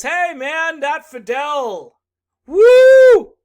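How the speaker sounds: shouted, hammed-up gushing Bernie voice; mock Bernie. Mocking Bernie gushing over Fidel, shouted. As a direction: yell it like a giddy fanboy.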